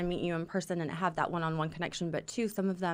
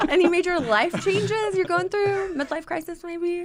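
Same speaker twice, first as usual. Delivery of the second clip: teasing laugh; 10 semitones higher, 8 dB louder than usual. Pretend. Role play receptionist teasing.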